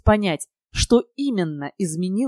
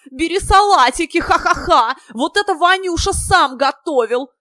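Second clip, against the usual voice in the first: much higher, loud boisterous party yell; yelling with glee; 10 semitones higher, 7 dB louder than usual. Acted. Durilov hollers at Kirill to grab salads, loud and high. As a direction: bellow it out, laughing at the table. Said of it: "завопил Дурилов".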